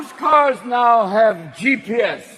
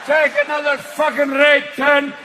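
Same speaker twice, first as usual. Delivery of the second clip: Scottish GPS; 5 semitones higher than usual. Retold or imitated. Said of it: "Scottish G P S".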